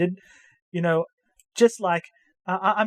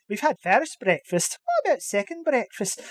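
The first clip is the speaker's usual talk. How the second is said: film quote impression; 4 semitones higher than usual. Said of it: "Lord of the Rings reference".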